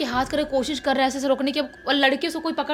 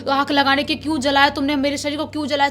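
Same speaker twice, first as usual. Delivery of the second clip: furious shouting; faster than usual. Retold or imitated. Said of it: "चिल्लाने लगती है".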